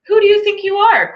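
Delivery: rising to a high indignant cry; proud angry cry. Acted. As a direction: scoff then cry out in outrage. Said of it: "cried the Rainbow Fish".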